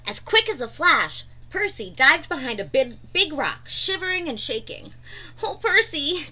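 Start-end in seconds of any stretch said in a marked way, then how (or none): 5.4-6.3 giggling. A narrator's reading. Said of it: "giggled Pufferfish".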